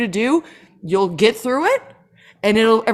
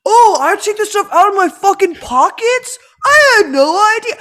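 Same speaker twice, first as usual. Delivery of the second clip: slow clueless traveler; 5 semitones higher than usual. Retold or imitated. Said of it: "slowly like".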